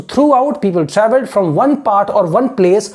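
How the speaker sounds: very slow, careful reading aloud; model reading. Shown as a demonstration. Teacher modelling how students should read the sentence, slow. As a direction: read it slowly, word by word. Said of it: "rereads sentence slowly".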